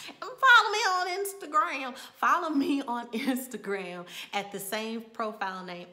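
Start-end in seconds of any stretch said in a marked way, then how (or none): 2.2-5.9 laughing. Real, not acted. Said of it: "Tongue twister".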